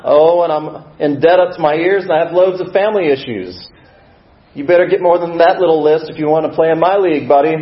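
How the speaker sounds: loud, high, challenging call across a room; one-up them loudly from afar; heckler from the back. Acted. Voice from the back outbidding the newcomer's troubles, loud challenge. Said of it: "a voice from the back of the room".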